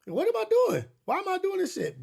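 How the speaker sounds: high, frantic, near-shouting panic; panicked inner voice. Retold or imitated. Recalling his panic in the ocean, a high frantic cry. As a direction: blurt it out in sudden alarm.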